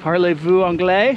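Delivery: second try, clearer American-accented French; careful school French with a rising question; foreign accent in French. Shown as a demonstration. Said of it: "see if I can practice saying".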